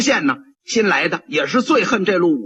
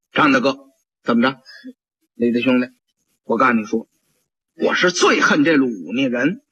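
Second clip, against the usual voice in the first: a hint of a stern old bailiff; low constable voice; 6 semitones lower than usual. One constable to the other, low and stern. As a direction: voice it lower, a gruff constable.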